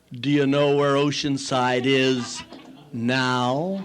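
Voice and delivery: slow, measured taunt with a pause before the last word; deliberate, controlled challenge; gloating confrontation. Retold or imitated. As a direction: savour the revenge, nose to nose. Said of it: "Put my nose right against his".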